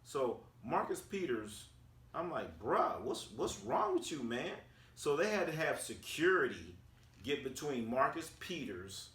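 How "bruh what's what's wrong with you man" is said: mild disbelief. Retold or imitated. First retold reaction to the outburst.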